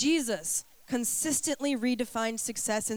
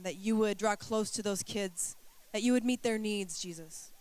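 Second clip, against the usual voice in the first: prayer. Acted. Leads congregation in prayer.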